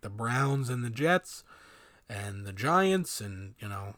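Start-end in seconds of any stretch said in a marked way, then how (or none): 2.1-3.2 "Giants" said slowly, leaning on it; "and the Giants" drawn out with emphasis; stressed. Real, not acted. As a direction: stretch out "the Giants" for weight. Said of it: "and I stress that".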